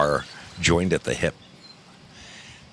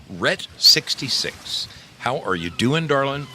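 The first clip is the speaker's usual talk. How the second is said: sing-song greeting; 7 semitones higher than usual. Acted. Streamer greeting chat viewer warmly.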